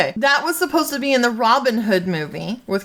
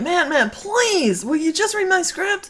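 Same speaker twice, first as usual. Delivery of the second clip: lightly voiced slow, high begging; 8 semitones higher, slower than usual. Friend begs to read script.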